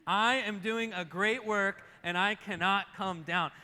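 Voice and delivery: slow, loud, forceful declaration. Shown as a demonstration. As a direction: drive every word home with oomph. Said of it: "with a little more umph in it".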